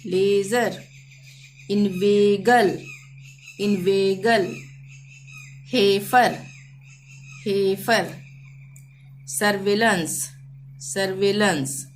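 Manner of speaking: stretched ए in लेजर, इन्वेगल, हेफर; careful word list with long ए; drawn-out ay. Shown as a demonstration. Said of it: "इस तरह से खींचकर इनका".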